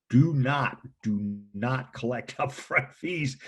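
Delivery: slow, emphatic ban breaking into a laugh; laughing while laying down a rule; laughing warning. Real, not acted. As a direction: stress each word and laugh through it. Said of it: "I'm laughing".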